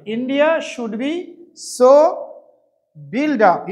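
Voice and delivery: drawn-out words for copying; slow dictation. Shown as a demonstration. Teacher dictating the answer to students, very slowly. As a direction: spell it out slowly for the class. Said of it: "তাই এখানে passive করতে হবে।".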